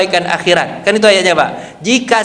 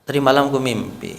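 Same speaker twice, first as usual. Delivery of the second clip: hushed dream telling; 7 semitones lower, 7 dB quieter, faster than usual. Acted. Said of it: "Kata Nabi".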